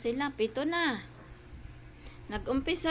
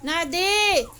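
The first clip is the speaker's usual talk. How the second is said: high, loud shout of a name; scolding call; 4 semitones higher, 10 dB louder than usual. Real, not acted. Owner calling out Nadi for biting, sharp loud scolding. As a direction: shout the dog's name with a falling tune.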